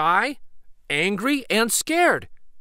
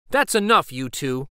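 warning. Acted. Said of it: "warns Missus Flores".

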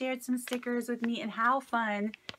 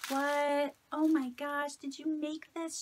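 surprised delight; 6 semitones higher than usual. Real, not acted. Finds handmade gift in package.

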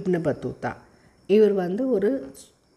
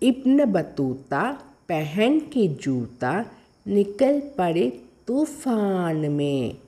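poem recitation; 2 semitones higher than usual. Shown as a demonstration. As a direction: recite line by line for pupils to follow. Reads the poem to pupils. (நிதானமாகக் கவிதை வாசிப்பு)

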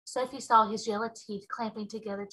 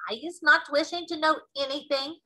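dignified; 5 semitones higher, 3 dB louder than usual. Acted. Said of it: "very dignified".

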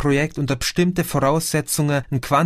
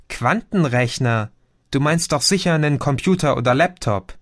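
puzzled interruption; 2 semitones higher than usual. Acted. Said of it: "unterbrach ihn Chrissy".

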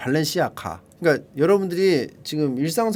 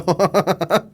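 real burst of laughter; amused laugh. Real, not acted. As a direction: crack up at the review. Laughs at the review. (빵 터진 웃음)

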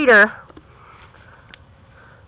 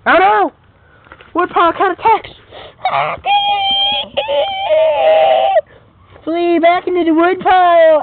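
alarmed cry; 5 semitones higher than usual. Acted. Cat attack sends someone fleeing.

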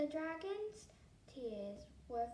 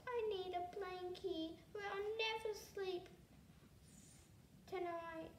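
high-pitched, mildly sobbing dragon; mock sobbing; 6 semitones higher than usual. A narrator's reading. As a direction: plead in a raised voice, lightly tearful. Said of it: "He sobbed".

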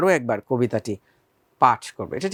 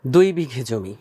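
recited title; 2 semitones lower than usual. Shown as a demonstration. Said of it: "আবৃত্তি করে শোনাচ্ছি".

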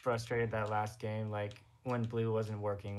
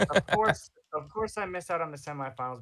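exasperated; 5 semitones higher, 4 dB louder than usual. Real, not acted. Missed semifinals, exasperated outburst.

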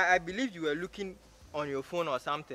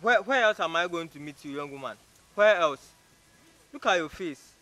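loud, contemptuous comeback; scornful challenge; 6 dB louder than usual. Acted. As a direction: throw the threat right back. Man scorns her warning.

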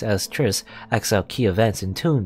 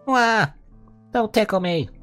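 squealing protest; 12 semitones higher than usual. Acted. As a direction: squeal as if being tickled. Being tickled.

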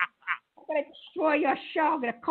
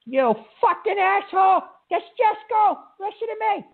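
furious, loud yelling at the caller; angry yell; 4 semitones higher, 4 dB louder than usual. Real, not acted. Radio host yelling at a prank caller, furious. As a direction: blow up at him.

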